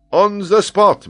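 high, loud, instant agreement; ringing, confident yes; eager acceptance. Acted. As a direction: jump at the bet. Geographer eagerly accepts the wager.

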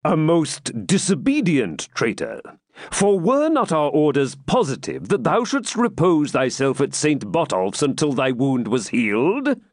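slow, lifted mock scolding; kingly teasing reproach; smiling. A narrator's reading. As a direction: scold him through a smile.

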